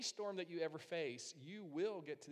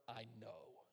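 quiet God voice; 4 semitones lower, 8 dB quieter than usual. Retold or imitated. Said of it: "anything except for".

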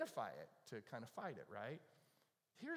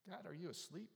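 pleading prayer; 5 semitones higher than usual. Retold or imitated. Pastor voicing a believer crying out to God, pleading. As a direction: cry out like someone feeling forgotten. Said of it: "you cried out to God and you go".

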